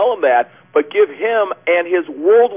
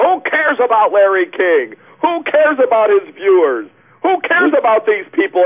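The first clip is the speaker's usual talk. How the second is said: mock preacher outburst; 4 semitones higher than usual. Host mocking the preacher's unloving words, mock-indignant. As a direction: imitate an indignant preacher, slightly raised. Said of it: "that sounds very loving".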